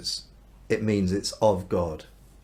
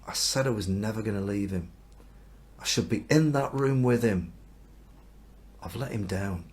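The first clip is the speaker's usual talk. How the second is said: guilty regret. Acted. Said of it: "he feels this awful sense of guilt".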